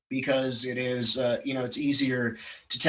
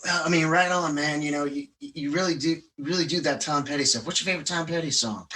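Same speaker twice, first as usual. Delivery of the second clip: easygoing "right on, man" friend voice, barely put on; imitating his friend; 2 semitones higher than usual. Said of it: "this is how he talks".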